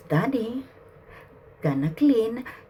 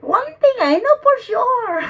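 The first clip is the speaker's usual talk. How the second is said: much higher and louder, proclaimed; loud declaration; 10 semitones higher, 6 dB louder than usual. Real, not acted. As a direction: announce it with certainty. Declaring to the spirit.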